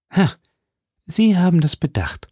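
high, scornful exclamation; scornful cry. A narrator's reading. Captive Milady scorns Felton's refusal, crying out. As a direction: call it out with contempt. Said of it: "rief die Gefangene, indem sie sich verächtlich lächelnd".

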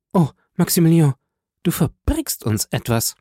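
hoher, lauter Ansatz bei „Oh“; besorgtes Drängen. A narrator's reading. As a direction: den Bruder besorgt bedrängen. Julie dringt besorgt in den Bruder. (leicht gespielte bange Schwester)

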